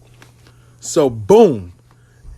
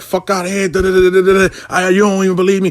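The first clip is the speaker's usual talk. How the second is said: mock cussing out; 2 semitones higher than usual. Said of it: "cussed me the fuck out".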